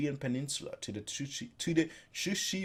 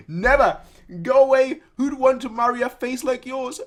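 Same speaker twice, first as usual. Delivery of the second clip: very high, loud outraged protest; shrill refusal; 10 semitones higher, 8 dB louder than usual. Acted. Man refusing marriage, shrill and outraged. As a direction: squawk it in horror. Refusing woman's proposal again.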